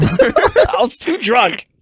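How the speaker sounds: slow words through a laugh. Real, not acted. Laughing at own story.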